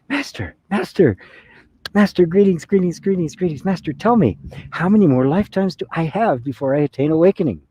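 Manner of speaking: high, excitable seeker's voice; eager greeting. Acted. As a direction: play an overeager disciple tumbling over his greetings. Eager regular guy greets the master.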